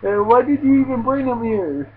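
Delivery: high, loud panicked shouting, fast in places; panicked yell. Retold or imitated. Ichigo yelling in panic at the man dunking a friend, high and loud. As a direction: yell in high-pitched alarm as if someone might drown. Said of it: "Ichigo's just like".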